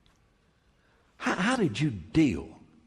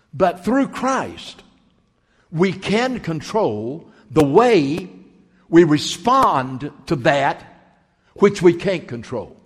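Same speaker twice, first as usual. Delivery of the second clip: slow emphatic; 2 semitones higher, 6 dB louder, slower than usual. Real, not acted. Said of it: "slowed emphatic teaching".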